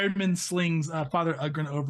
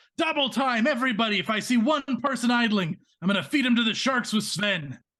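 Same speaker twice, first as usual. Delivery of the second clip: loud bellowing yell. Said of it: "immediately starts yelling".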